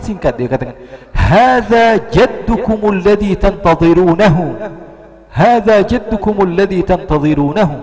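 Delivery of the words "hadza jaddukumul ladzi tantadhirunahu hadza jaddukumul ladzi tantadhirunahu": loud, high, drawn-out proclamation; retold rooftop cry in Arabic; shouted announcement. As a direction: call it out slowly to everyone below. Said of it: "Akhirnya dia teriak".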